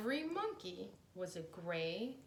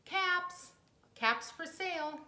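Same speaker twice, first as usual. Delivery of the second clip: loud peddler's street cry; calling out; 8 semitones higher, 7 dB louder than usual. A narrator's reading. Peddler calling to passersby, loud street cry. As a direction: call out to sell your caps. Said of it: "he called".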